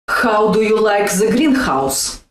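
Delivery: "greenhouse" with a throaty Russian H; hard Russian H in "greenhouse"; Russian accent demo. Shown as a demonstration. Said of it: "Yes, the letter H".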